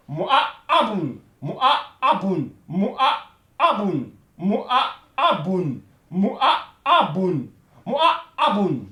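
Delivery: "Mu'a-abun" with the second "a" held long and pressed; stressed syllable. Shown as a demonstration. Teacher to French class: "Mu'a-abun" with the stressed, lengthened "a". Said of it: "C'est ici on appuie".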